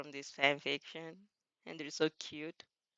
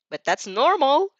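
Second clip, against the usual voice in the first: higher, louder whiny complaint; complaining; 7 semitones higher, 6 dB louder than usual. Acted. Sulky shadow complains to host, whiny. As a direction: whine it like a sulky teen. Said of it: "she complains".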